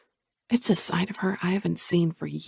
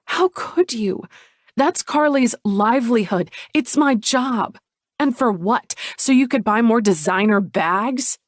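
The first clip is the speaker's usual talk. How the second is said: angry; 4 semitones higher than usual. Acted. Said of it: "I'm so angry".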